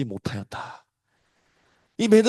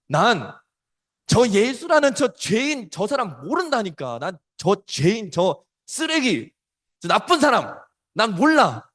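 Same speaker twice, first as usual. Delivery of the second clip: cursing denial; 4 semitones higher, slower than usual. Retold or imitated. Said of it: "막 저주를 합니다".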